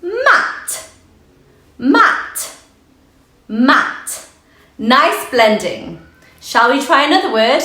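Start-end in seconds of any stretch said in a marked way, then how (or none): 0.0-4.3 excited. Acted. Teacher cheers the blended word.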